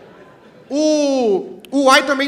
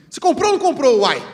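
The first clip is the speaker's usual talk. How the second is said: louder, faster mock-angry question; angry mineiro; 3 semitones higher, 6 dB louder, faster than usual. Imitating an angry mineiro demanding an answer, louder and faster. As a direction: snap it out like an annoyed Minas local. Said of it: "o mineiro tá bravo".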